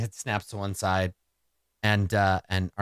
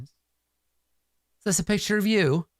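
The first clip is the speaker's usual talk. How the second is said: slow stern clerk; 10 semitones higher, slower than usual. Acted. Clerk questions prisoner slowly.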